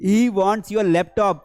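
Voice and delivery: he wants money said very slowly, word by word; slow dictation. Shown as a demonstration. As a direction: spell it out slowly for the class. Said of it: "उसे तुम्हारा laptop चाहिए". (धीरे-धीरे बोलकर सिखाना)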